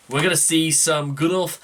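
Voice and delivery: put-on aborted go at a Scouse accent, pitch climbing; Scouse accent attempt. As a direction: try Scouse and give up halfway. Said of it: "I can't do the accent".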